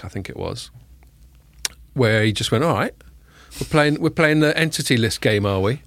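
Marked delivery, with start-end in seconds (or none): 2.6-5.8 light mock Cockney accent, slightly raised; Xi Jinping as Cockney. Podcast host imitating Xi Jinping taunting the US, mock Cockney accent. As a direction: tease it out in a hammed-up Cockney accent. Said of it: "He's got a Cockney accent".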